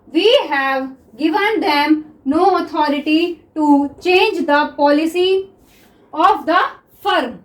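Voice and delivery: very slow, word-by-word dictation pace. Acted. Teacher dictating to shorthand students, very slow and deliberate. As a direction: dictate it slowly so students can write.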